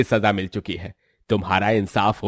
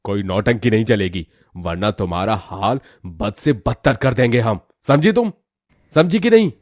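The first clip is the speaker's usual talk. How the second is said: angry threat; 4 dB louder than usual. Acted. Uncle threatening his niece, ending in a loud shout. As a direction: demand an answer, menacing.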